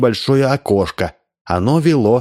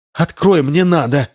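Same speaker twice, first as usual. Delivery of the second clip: shouted demand; 6 semitones higher than usual. Acted. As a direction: yell for the door to open. Rimma banging on the door.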